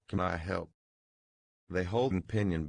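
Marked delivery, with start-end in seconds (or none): 0.1-0.7 ferocious cook. A narrator's reading.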